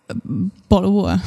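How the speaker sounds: British "bottle of water"; British accent. Shown as a demonstration. Co-host gives a starter word for British, in a British accent. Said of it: "That's one word in English".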